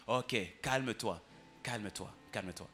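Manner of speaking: slow, fading soothing repeats; soothing calm-down. Retold or imitated. Father calming crying daughter.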